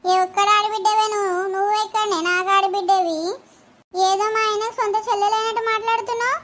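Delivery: a lightly voiced, scolding sister-in-law; quarrelsome sister-in-law. Sister-in-law scolding the mother over who is family, in a mild, haughty scold. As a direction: put her in her place, talking down.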